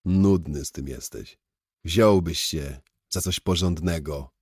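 mildly tipsy grumble; drunken grumbling. Acted. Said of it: "marudziłem, bo byłem pijany". (lekko pijackie marudzenie)

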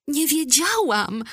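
high, drawn-out tearful wail; wailed cry. A narrator's reading. Mother learning the servants are stricken, crying out. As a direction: cry it out high and slow, in distress. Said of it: "zapłakała pani Sahib".

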